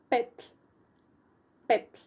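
"pet" repeated with pauses, each ending in voiceless tl; one-syllable demo. Shown as a demonstration. Teacher repeating four letters as only one syllable, separately. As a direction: model "pet" as a single syllable, tl released without a vowel. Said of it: "but only one syllable".

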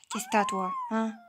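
very high, cartoonish squeak; high-pitched mock baby voice; squeaky teasing voice. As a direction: squeak it like a tiny creature. Teasing a pet or creature.

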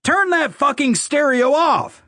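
slow, high-pitched angry holler; enraged command, pitch way up; furious yell. A narrator's reading. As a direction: yell the order, drawing out each word. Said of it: "yelled at me".

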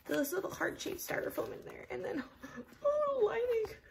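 high, building excited gush; squealing delight. Real, not acted. Showing the bag's lining, rising excited squeal.

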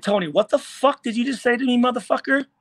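retold angry challenge. Player confronting a rival at a party, indignant. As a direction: call him out, demanding he repeat it.

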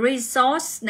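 resource slowed, stressed on SOURCE; second-syllable stress. Shown as a demonstration. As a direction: example word "resource" with weight on "source". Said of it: "danh từ nhấn vào âm hai".

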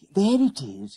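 high schoolboy exclamation; exclaiming. A narrator's reading. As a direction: spot it and call out, pitched high. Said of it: "he exclaimed".

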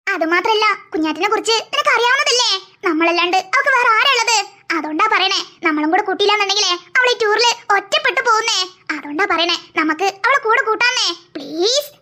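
low-pitched, coaxing appeal; softhearted plea on a friend's behalf, pitched low; gentle pleading. Acted. Friend pleads for the crying girl. (താഴ്ന്ന സ്വരത്തിൽ അപേക്ഷിച്ച്)

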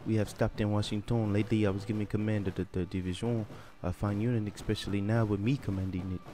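put-on French accent. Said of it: "I can't really do a French accent, but I'm trying".

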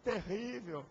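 mock crybaby complaint, slow at the start; hammed-up whine of the offended singers; mock whining. Singers whining about the harsh pastor, mock crybaby tone. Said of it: "Aí ficar chorando".

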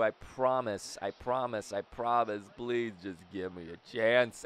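low, hushed begging; quiet, playful begging; pleading. Pretend. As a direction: plead softly under your breath. Begging game for another chance.

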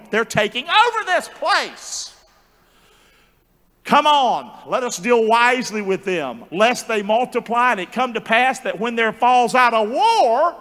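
rally the people against a threat; alarmed king. Acted. Egyptian king warns his people of Israel, alarmed and rousing.

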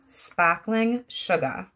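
real Boston accent, dropped r's. Real, not acted. Introducing the first wax scent in a Boston accent. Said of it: "Don't mind my Boston accent".

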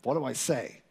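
put-on a shy kid searching for words, dragging them out; awkward boy talking to girls. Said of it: "it's like".

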